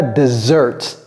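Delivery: "desert" wrongly said as dih-ZERT; dessert pronunciation. Shown as a demonstration. Teacher rejects the sweet-course word, mispronounced demo. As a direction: stress the second syllable of "desert". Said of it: "Ça là, c'est pas desert".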